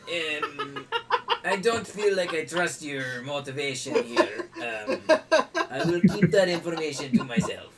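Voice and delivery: put-on a lightly French-accented innkeeper, wary and amused; a hint of French, laughing a little; mock French accent, suspicious. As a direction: innkeeper refuses to reveal the cellar in mock French. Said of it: "butcher my French accent".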